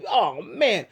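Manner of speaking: ordinary talk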